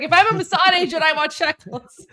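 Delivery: teasing sing-song put-on voice; mock voice. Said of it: "So I was like".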